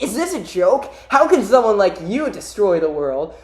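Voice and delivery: lightly hammed-up taunt; incredulous cartoon hero. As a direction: question the threat in mock disbelief. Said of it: "and he's like".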